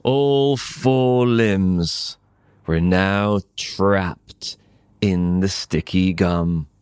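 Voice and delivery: ordinary delivery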